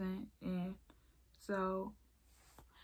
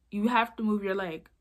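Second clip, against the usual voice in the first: louder, insistent retold order; mean yelling; 6 dB louder than usual. Woman insisting to an injured teen, mild mock yell. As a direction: imitate a mean woman's yell, held back. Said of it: "Like, she was yelling".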